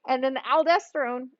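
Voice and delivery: catching in the throat; choking. Real, not acted. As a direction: talk through a choke. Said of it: "sorry, I'm choking there".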